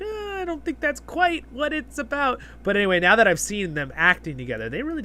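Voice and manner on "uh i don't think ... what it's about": imitating Durin actor. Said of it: "the Durin actor was kinda like".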